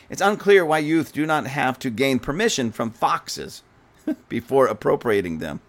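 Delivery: reading that breaks into a laugh; amused reading. Real, not acted. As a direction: read it out, cracking up midway. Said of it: "that was a funny line".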